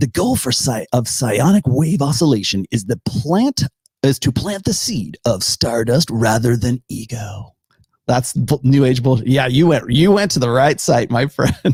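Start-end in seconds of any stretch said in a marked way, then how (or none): 0.0-7.5 put-on announcer-style voice. Reading text from a website aloud: announcer voice. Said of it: "I'm going to read it in announcer voice".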